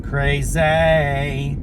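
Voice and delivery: "Crazy" stretched, second syllable stressed; different inflection on crazy. Shown as a demonstration. Trying out the new inflection, "Crazy" stressed on its last syllable. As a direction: say "Crazy" as cray-ZAY with a long ending. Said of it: "a different inflection".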